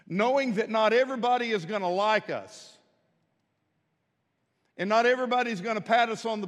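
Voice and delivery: loud repeated "Today" hits, rising to a rally; rally the troops, strong and loud; roaring rallying speech. Acted. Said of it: "famous old gospel song battle".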